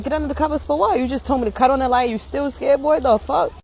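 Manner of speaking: incredulous parent. Retold or imitated. Parent questions scared son's request, incredulous. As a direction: throw the request back, mock exasperation.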